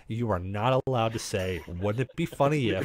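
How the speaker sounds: low, softly measured retold reprimand; calm warning. Player laying down the law to his friend, calm. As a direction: state the ban calmly and evenly. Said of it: "I calmly look over at D".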